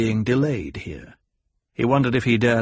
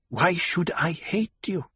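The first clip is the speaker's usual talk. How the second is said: tribeswoman; 7 semitones higher than usual. A narrator's reading. Hera answers in character.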